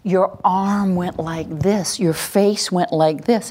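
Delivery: put-on calmly mirror the child's movement back; slow and gentle, naming what you see; gentle noticing. Shown as a demonstration. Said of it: "we wanna notice them".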